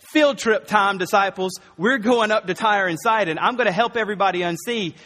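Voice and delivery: rally the disciples for a field trip; excited Jesus. Retold or imitated. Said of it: "So Jesus in twenty-one says".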